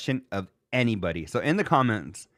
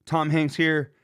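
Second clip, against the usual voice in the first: imitating Rich Davis; slower than usual. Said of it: "Uh, Rich".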